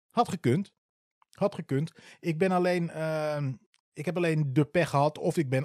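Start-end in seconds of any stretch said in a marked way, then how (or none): 0.1-0.7 exclaimed take. Shown as a demonstration. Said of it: "first of two repeated takes".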